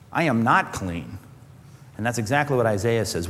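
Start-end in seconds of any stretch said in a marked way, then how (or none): 0.1-1.2 sober realization. Acted. Acted realization in the clean room.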